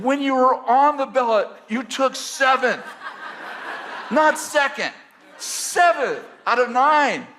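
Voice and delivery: high, loud, laughing and slow; laughing disbelief. Retold or imitated. Mocking his friend's write-in plan, laughing loud. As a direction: laugh as you remind him he came seventh.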